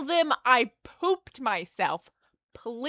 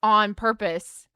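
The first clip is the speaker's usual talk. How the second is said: slow, louder insistence; insistent denial; 5 dB louder than usual. Retold or imitated. Patient insisting to her therapist, emphatic. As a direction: insist it was no accident. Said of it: "I was like".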